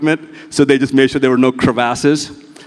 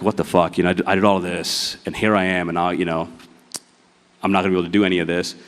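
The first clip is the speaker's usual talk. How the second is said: despairing, near tears; 6 semitones lower, 5 dB quieter, faster than usual. Retold or imitated.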